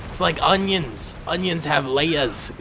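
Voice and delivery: put-on lightly done Scottish accent, Shrek line; a half-hearted Scottish ogre imitation; bad Scottish Shrek voice, slow on layers; Shrek impression. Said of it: "I can't do a Shrek".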